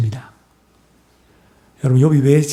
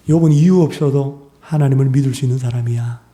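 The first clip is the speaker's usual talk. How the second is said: usual speaking voice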